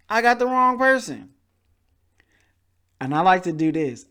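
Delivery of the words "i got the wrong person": mock dismayed cry. Caller dismayed by agent.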